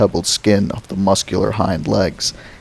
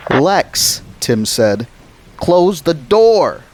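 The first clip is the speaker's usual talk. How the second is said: urgent shout; 8 semitones higher, much slower than usual. Acted. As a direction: yell it at your sister. Tim shouting at sister.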